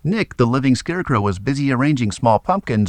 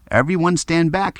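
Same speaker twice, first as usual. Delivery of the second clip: shouted; 7 semitones higher than usual. A narrator's reading. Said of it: "shouted Jess".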